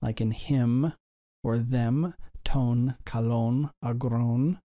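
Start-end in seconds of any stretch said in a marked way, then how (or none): 2.4-4.6 slow "ton kalon agron" with nasal n endings; nasal final sound. Shown as a demonstration. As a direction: draw out "ton kalon agron", letting each final n hum in the nose. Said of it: "notice the nasal sound, like in him".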